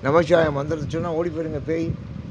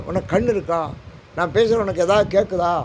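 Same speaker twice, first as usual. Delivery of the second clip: raised, louder mock yell at the god; imitating a man shouting in the temple; retold shout; 4 semitones higher, 3 dB louder than usual. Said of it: "அப்படின்னு கத்துறாரு". (கோயிலில் கத்தும் மனிதரைப் போல உரத்த குரல்)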